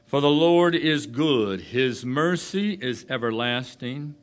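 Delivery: loud, slow preacher's reading voice; booming pulpit reading; scripture reading. Acted. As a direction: proclaim each line slowly to the congregation. Reads scripture aloud, preaching.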